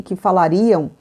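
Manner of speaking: ordinary talk, nothing marked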